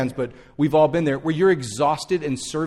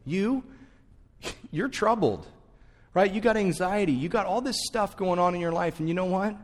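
softer and slowed, tender rebuke; gentle correction; 4 dB quieter than usual. Retold or imitated. Jesus slows the busy Martha down, gentle and softer. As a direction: ease her down kindly, like calming a worried friend. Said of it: "the Lord just slows her down and goes".

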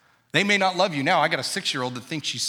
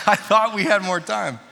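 raised, louder comic lament; hammed-up exasperation, pitched higher; mock dismay; 4 semitones higher, 5 dB louder than usual. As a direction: play up a dad's dismay for laughs. Repeats comic reaction for laughs.

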